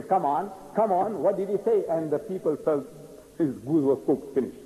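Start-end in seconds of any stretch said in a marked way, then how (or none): 0.0-1.8 raised-pitch insistent prodding; impatient demand. Acted. Reverend pressing the silent Maulana again, impatient. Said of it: "started beating his feet again".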